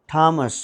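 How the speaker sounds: थॉमस said with a plain T, no th. Shown as a demonstration. Teacher correcting the class on थॉमस. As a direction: say थॉमस as Tomas, silent h. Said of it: "थॉमस नहीं".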